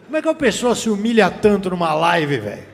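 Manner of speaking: loud disbelieving groan; loud mock outrage; retold disbelief. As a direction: react loudly in disbelief at a stream.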